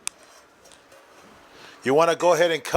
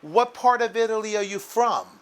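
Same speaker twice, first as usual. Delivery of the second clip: nice greetings; 7 semitones higher than usual. Retold or imitated. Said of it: "she asked them with nice greetings".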